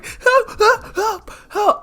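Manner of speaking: high, short yelps fading away; desperate screams dying down; shouting for help. Acted. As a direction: cry out repeatedly, weakening each time. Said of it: "The man will continue shouting".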